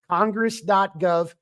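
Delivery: "Congress dot gov" drawn out with weight on "dot"; slow careful dictation. Shown as a demonstration. Repeating the web address slowly so listeners can write it down. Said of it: "You can find it at congress dot gov".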